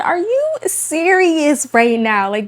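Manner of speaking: high, slow, exasperated retelling of a snap; snapping at son. Retold or imitated. Mother reliving snapping at son over vacuum lines, exasperated. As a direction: replay the moment you lost it with your son. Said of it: "I completely snapped".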